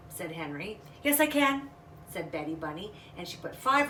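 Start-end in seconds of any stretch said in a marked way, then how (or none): 1.0-1.7 higher, louder defiant reply; defiant child. Acted. Little bunny defying her brother, higher and louder. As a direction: talk back to big brother.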